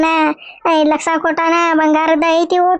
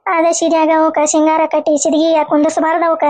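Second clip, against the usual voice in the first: tearful lament. Acted. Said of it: "ಇಷ್ಟ್ ಅಳಾಕತ್ತಿದಿ".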